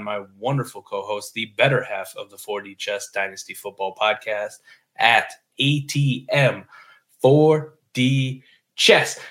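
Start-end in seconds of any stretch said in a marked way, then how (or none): 5.0-9.2 announcer drawl. Acted. Drawn-out host name intro.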